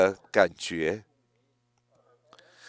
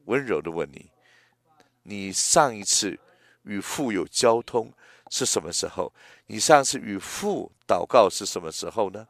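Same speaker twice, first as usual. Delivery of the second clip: gentle questioning. Real, not acted. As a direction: ask it gently, without pressing.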